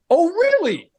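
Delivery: very high, mock-indignant squeal; retold angry retort. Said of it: "but I would get angry".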